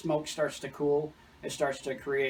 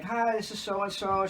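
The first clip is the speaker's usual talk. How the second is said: lightly voiced caller woman; 5 semitones higher than usual. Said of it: "She's like".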